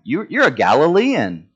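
high, swooping accusation; mock accusation. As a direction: call him out with exaggerated pitch swings. Acted accusation of Peter in courtyard.

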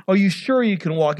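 mock yell at the man; imitated yelling. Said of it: "you yell at the man".

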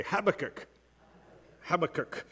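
Habakkuk, sounded out the American way; Habakkuk pronunciation. Shown as a demonstration. Leading a congregation in saying Habakkuk, demonstrative. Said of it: "Say that with me".

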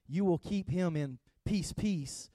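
"peace, peace" said twice, the second falling; doubled peace. Shown as a demonstration. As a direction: repeat "peace" to show emphasis. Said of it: "this is the word peace twice".

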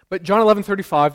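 emphatic loud verse call; loud emphatic reference. Acted.

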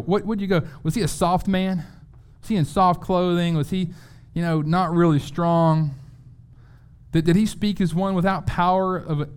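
lightly voiced Jesus challenging the crowd; preacher voicing Jesus asking the crowd; rhetorical challenge. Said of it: "So Jesus rhetorically asked the people".

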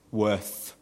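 "Worth" said alone with a careful final th; "Worth" isolated, ending on a clear th; careful pronunciation. Shown as a demonstration. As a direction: sound out "Worth" as the first half of worthship. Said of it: "I can't pronoun-, pronunciation".

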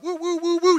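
high quick "woo woo" hoots; playful whooping like swinging monkeys; imitated monkey whoops. Preacher showing kids swinging across monkey bars, whooping.

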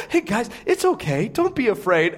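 easygoing, softening as it ends; lightly calm them down like friends; casual reassurance. Acted. Angel to frightened women at the tomb, casual reassurance.

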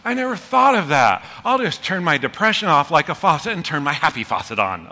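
mock thankful gush; sarcastic reply. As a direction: pretend to be grateful, dripping sarcasm.

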